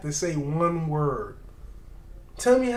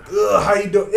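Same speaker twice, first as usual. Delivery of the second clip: imitating American greeting; 2 semitones higher, 6 dB louder than usual. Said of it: "who talks like that".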